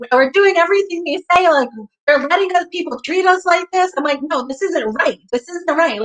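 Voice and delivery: worked-up pleading argument, re-enacted; retold indignant protest. Acting out her protest to roommate.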